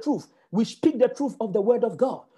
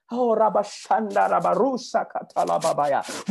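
fervent glossolalia burst; speaking in tongues. Real, not acted. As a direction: pray out in tongues. Preacher bursts into tongues mid-sermon.

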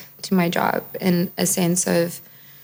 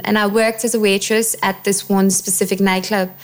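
put-on gaudy London accent. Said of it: "I don't know why I've decided to go with this accent".

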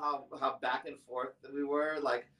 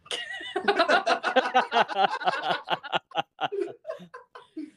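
long laugh; 12 semitones higher, 6 dB louder than usual. Real, not acted. Laughing at the name story.

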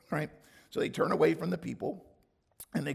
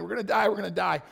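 complaining; 4 semitones higher, 6 dB louder, much faster than usual. Retold or imitated. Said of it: "they're complaining".

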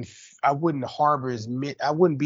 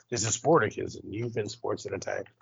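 news sign-off; 4 semitones lower, 7 dB quieter than usual. Shown as a demonstration. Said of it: "Say it like you're on a, a news station and, like, you're signing off for the day".

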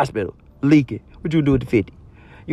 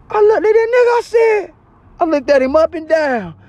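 incredulous narration; 4 dB louder than usual. Retold or imitated. Disbelief at the robber.

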